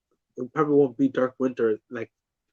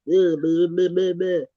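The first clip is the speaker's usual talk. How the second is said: mocking blah-blah; 2 semitones higher, slower than usual. Mimics doubters' dismissive chatter.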